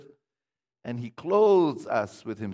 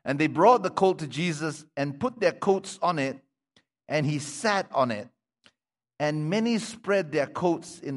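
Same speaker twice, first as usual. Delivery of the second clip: measured, projected Bible reading; scripture reading; 2 semitones higher, 3 dB louder than usual. Acted. Preacher reading the colt story to the congregation, projected reading voice. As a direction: read the passage out clearly to the congregation.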